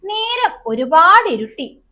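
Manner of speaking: lost little butterfly fretting about getting home; teacher voicing the butterfly's worry, slow and high; worried little butterfly. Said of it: "കുഞ്ഞു പൂമ്പാറ്റ".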